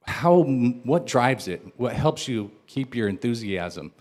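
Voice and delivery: normal talking voice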